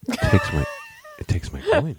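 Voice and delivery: high-pitched delighted cry; mock excited shout. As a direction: shout it high like a thrilled kid. Imitates kid excited at brothel.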